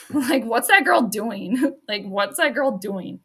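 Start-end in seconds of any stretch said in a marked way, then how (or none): 0.4-1.6 put-on slow, drawn-out baby talk to a dog; pet talk. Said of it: "That's what I'll say". 2.0-3.2 put-on slow, drawn-out baby talk to a dog; pet talk. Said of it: "That's what I'll say".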